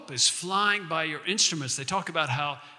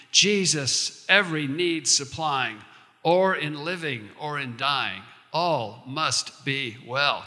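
hymn poem recitation. Acted. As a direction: savor each line like a hymn.

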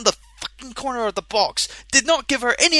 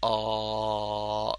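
gobsmacked; 13 semitones lower, 11 dB quieter than usual. Retold or imitated. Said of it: "gobsmacked expression is like".

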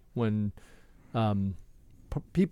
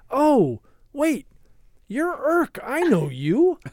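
high, loud starstruck gush; excited fan; 13 semitones higher, 7 dB louder, slower than usual. Retold or imitated. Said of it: "He was like".

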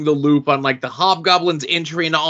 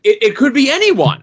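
mock dramatic; 12 semitones higher, 5 dB louder than usual. Host teasing the mystery villain.

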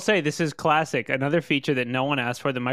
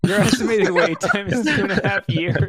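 higher, laughing recorded hold voice; phone menu voice; 4 semitones higher than usual. Pretend. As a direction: repeat it like an automated hold message. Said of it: "hold message".

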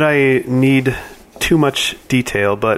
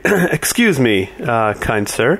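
polite in-character voice; 4 semitones higher than usual. Acted. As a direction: ask like a polite stranger. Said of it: "I'll approach and say".

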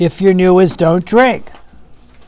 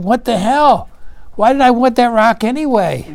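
higher-pitched, incredulous question; retold astonishment, pitched up; mock bewilderment; 5 semitones higher than usual. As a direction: act out a sudden baffled realization. Acted sudden realization after dropping rock.

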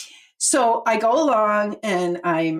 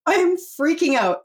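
mock panic; 9 semitones higher, slower than usual. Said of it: "I'm like".

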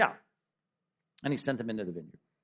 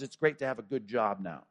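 tender pillow talk; 5 semitones lower than usual. Retold or imitated. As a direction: hush it like bedtime talk.

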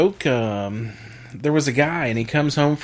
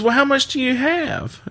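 high-pitched wife's question; mock haggling; 13 semitones higher than usual. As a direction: play the wife haggling, voice pitched well up. Wife haggles in joke.

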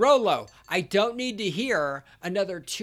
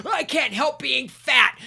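mocking whine; 6 semitones higher, 6 dB louder than usual. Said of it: "mocking fat people's excuse".

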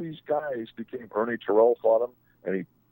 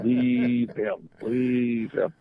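mock teasing quote; much slower than usual. Wife quoted repeating Ali.

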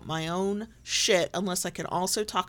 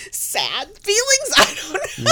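laughing; 12 semitones higher, 6 dB louder, slower than usual. Real, not acted. Laughing through awkward admission.

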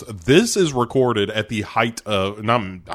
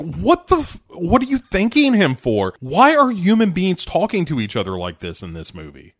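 high disbelief; 6 semitones higher than usual. Retold or imitated. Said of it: "And I'm like".

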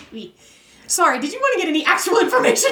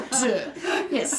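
ordinary delivery

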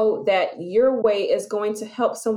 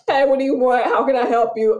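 curt, louder, impatient drive-thru greeting; gruff McDonald's clerk; 2 semitones higher, 4 dB louder than usual. Retold or imitated. Fast-food clerk brushing off a customer, curt and louder. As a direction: bark the order question like you're bothered. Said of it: "You go to McDonald's".

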